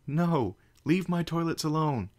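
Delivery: high, loud outraged cry; outraged shout. Acted. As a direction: yell it, protecting your toilets. Spike shouts at the intruder.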